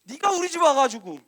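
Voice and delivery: a mild mock reproach; widow's blame. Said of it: "그러면서 원망하거든요".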